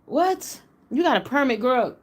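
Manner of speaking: a high, disbelieving "What?"; can't believe the excuse; incredulous. Real, not acted. Vlogger reacting to the shooter's permit claim, incredulous.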